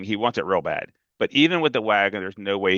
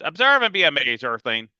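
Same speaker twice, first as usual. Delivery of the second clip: put-on grand announcer kid; 4 semitones higher than usual. Freak showing off his bird to the big kid, grandly. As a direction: announce it like a showman. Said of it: "and he goes".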